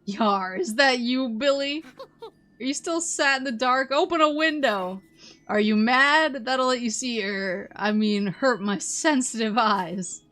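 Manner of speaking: gruff, indignant pirate captain. Acted. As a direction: scold like a cranky old captain. Pirate captain voiced again.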